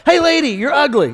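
high squawky parrot taunt; yelling parrot. Acted. Parrot heckling lady outside pet store, yelling. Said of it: "the parrot yells every day".

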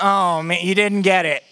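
mock disappointment, climbing in pitch; hammed-up blaming of a follower; exasperated Jesus. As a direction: start groaning, build to high-pitched exasperation. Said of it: "Jesus doesn't look back at him and goes".

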